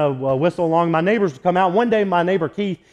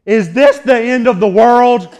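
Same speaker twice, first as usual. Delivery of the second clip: loud, higher imitated yell of a frightened neighbor; panicked shout; 4 semitones higher, 6 dB louder than usual. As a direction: yell it across the distance in panic.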